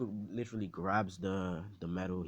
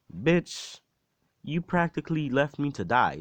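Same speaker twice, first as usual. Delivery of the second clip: high, loud indignant accusation; angry outburst; 7 semitones higher, 9 dB louder than usual. Retold or imitated. Izuku confronts All Might for leaving him to die, angry outburst. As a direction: snap it loudly, pitched right up.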